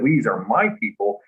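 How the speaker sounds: "my" hit firmly as the correction; stress on my. Shown as a demonstration. Correcting the misquote with what was said, stress on "my". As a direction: come down firmly on "my". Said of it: "I said".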